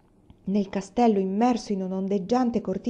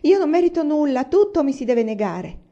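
1 sobbing complaint; 6 semitones higher, 5 dB louder than usual. Acted. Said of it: "raddoppiò i singhiozzi".

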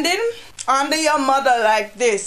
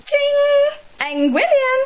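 ching exclamation; 12 semitones higher, slower than usual. Acted. Mock exclamation punchline.

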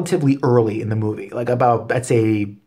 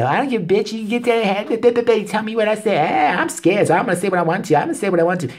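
imitating the black chick; 8 semitones higher than usual.

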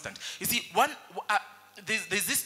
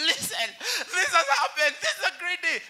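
acted excitement; 11 semitones higher, 4 dB louder than usual. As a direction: burst out with thrilling news, voice way up. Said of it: "I have had the best day in the world".

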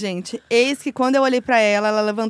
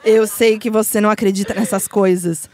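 demon voice; 2 semitones lower, 5 dB louder than usual. Acted. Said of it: "Vai, vozinha".

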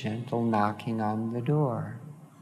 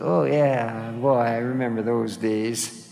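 louder, lifted "oh yeah" easing back down; fond exclamation; 4 dB louder than usual. Retold or imitated. Speaker recalling reading the beach scene, fond exclamation. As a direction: exclaim it in happy recognition.

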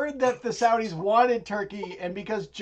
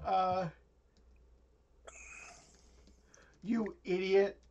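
quiet scolding; 5 dB quieter than usual. Acted. Senior quietly scolding his son Philip. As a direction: hiss it down at him.

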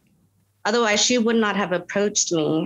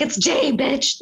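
sassy comeback; 5 semitones higher, slower than usual. Retold or imitated. Sassy retort to a review.

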